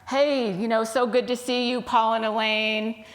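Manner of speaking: lightly acted cheerful waitress; a touch of welcoming cheer; friendly greeting. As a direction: greet familiar regulars, pitched a little up. Waitress greets regular customers.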